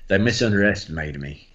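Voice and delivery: lightly imitated Texan president; Texan presidential impression; George Bush. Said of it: "a bit like George Bush".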